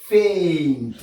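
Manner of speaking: "faint" with long AY, sounded N and T; English AINT ending. Shown as a demonstration. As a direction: stretch "faint", release the T. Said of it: "ain plus T". (« faint » allongé, N et T prononcés)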